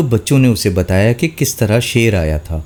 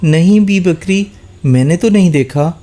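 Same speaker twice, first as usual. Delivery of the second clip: cat; 7 semitones higher than usual. A narrator's reading. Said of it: "بلی بولی".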